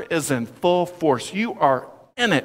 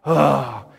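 weary, lower-pitched ugh of annoyance; exasperated ugh; 4 semitones lower than usual. Retold or imitated. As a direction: let out a fed-up groan. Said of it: "Cue the Napoleon Dynamite sigh".

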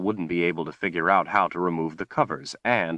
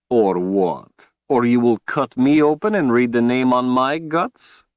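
louder, defiant challenge; angry; 7 semitones higher, 8 dB louder than usual. Acted. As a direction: spit the words back in rage. Richard angry retort.

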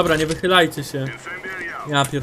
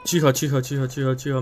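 hushing; 7 semitones lower, 9 dB quieter, faster than usual. Real, not acted. Hushing while listening for enemy.

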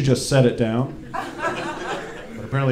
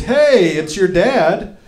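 creepy dad greeting; 6 semitones higher, 5 dB louder, much slower than usual. Retold or imitated. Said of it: "the message is".

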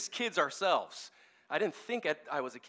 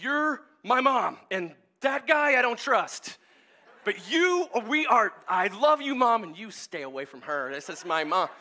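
a lightly voiced little boy, higher and louder, slow; imitating little son; 4 semitones higher, 5 dB louder than usual. New son telling dad to stay away, mock child voice. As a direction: claim mom like a fierce toddler. Adopted son claims his mom.

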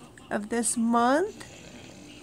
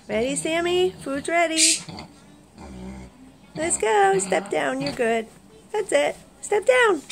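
high coaxing voice; 5 semitones higher than usual. Real, not acted. Coaxing pig off bed.

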